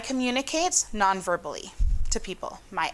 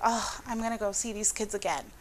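weary complaint; 6 dB quieter than usual. Retold or imitated. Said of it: "I'm going back to the classroom and be like".

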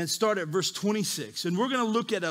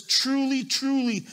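"Truly, truly" pitched up, each word stressed; each "truly" given its own raised beat; emphasis on TRULY; 4 semitones higher than usual. Shown as a demonstration. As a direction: lean on both "Truly, truly" as a solemn opener. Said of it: "big time emphasis on what's being said".

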